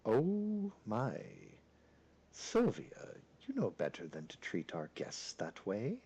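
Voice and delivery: a hint of a suave, reproving father; suave castle lord. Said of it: "in a very deep and suave voice".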